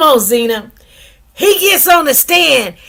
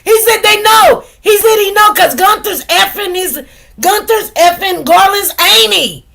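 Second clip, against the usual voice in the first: excited; 7 semitones higher than usual. Real, not acted. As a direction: burst out with the juicy news. Excitedly retelling courtroom gossip.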